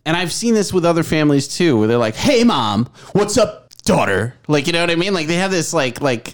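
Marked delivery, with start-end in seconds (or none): 2.1-4.3 imitated family twang; lightly mocking family banter tone; dicky twang. Husband imitating how families greet each other, dicky twang. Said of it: "twang or this tone".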